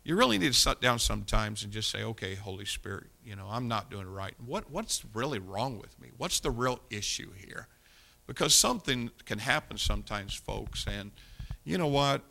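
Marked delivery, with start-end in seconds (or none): 2.0-7.7 softer, humble prayer to God; quiet prayer. Retold or imitated. Preacher voices a humble prayer to the Holy Spirit, soft. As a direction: confess it quietly and honestly.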